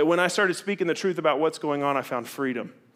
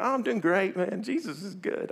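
fake cheer; 6 semitones higher than usual. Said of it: "you're supposed to be like".

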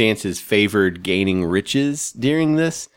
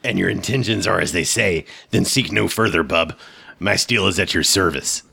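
Wolverine voice. Acted. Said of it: "I'm gonna use my Wolverine voice for Thongor".

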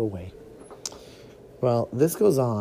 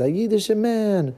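excited exclamation; 8 semitones higher, 3 dB louder than usual. Acted. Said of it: "he was so excited".

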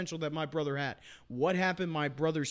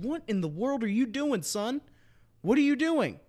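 coach yelling at a player; 7 semitones higher than usual. Retold or imitated. Retelling the coach chewing out his player, high mock yell. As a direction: get in his face and demand what he's doing.

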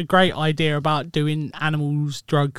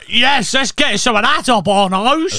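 eager; 7 semitones higher, 8 dB louder than usual. Retold or imitated. Voicing their past eager selves.

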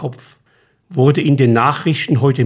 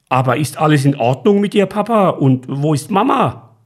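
worried; 3 semitones higher than usual. Acted. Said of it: "fragte er besorgt".

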